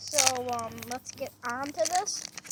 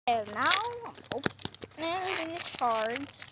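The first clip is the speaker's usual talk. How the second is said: talking through hiccups, slower; hiccuping between words; 3 semitones higher, much slower than usual. Real, not acted. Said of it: "I have the hiccups".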